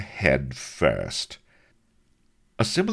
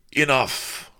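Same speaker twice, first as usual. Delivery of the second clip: lisping viceroy; 12 semitones higher than usual. Acted. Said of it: "lisped Don Lardo".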